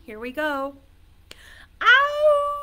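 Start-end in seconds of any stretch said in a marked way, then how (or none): 1.8-2.5 long, high, loud wolf howl. Shown as a demonstration. Teacher leading children in a wolf howl, high and long. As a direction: howl out high and let it trail. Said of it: "practice your wolf howl with me".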